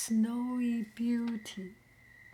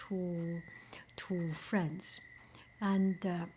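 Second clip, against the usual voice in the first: ASMR whisper; 2 semitones lower than usual. Acted. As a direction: hush each word as if sharing a secret. ASMR whisper explaining lucky draw.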